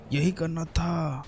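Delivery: slow, stretched-out words; drawn-out satisfaction. Real, not acted. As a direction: linger on each word, stretching the last. Relieved repeat after manoeuvring the truck.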